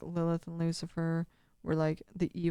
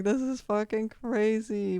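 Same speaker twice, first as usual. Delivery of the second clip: slow, higher mock disbelief; lightly voiced dragon; 4 semitones higher, slower than usual. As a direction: voice a dragon's reaction, drawn out. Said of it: "like, the dragon's like".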